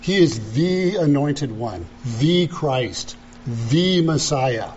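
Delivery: each "the" said as "thee" with weight; measured phrases, leaning on every "the"; stress on THE. Shown as a demonstration. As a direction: set each "the" apart as the one and only. Repeats emphatic "the" for uniqueness.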